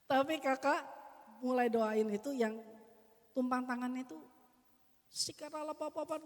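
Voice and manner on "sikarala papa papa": tongues prayer. Shown as a demonstration. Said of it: "doa pakai bahasa roh".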